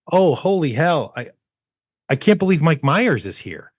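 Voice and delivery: fake surprise. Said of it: "and I go".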